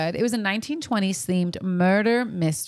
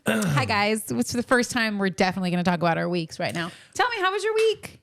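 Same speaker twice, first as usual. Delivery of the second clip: hammed-up host starting the show over; put-on show opening. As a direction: pretend it is all brand new to the listeners. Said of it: "Stop acting".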